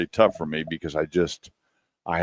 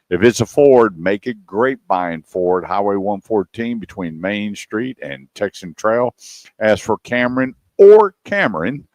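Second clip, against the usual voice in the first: radio ad read; 3 semitones higher, 4 dB louder than usual. Acted. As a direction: hit the sponsor's name like an announcer. Closes the sponsor's radio ad.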